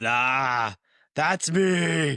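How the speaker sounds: badly done, deep-pitched villain voice. A host answering his own introduction, in a terrible Darth Vader voice. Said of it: "Terrible Vader voice".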